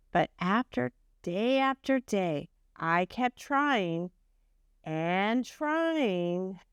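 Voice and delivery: gentle storybook reading voice; reading to children. A narrator's reading. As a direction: tell it like a bedtime story to a class. Reads Humpty's story aloud.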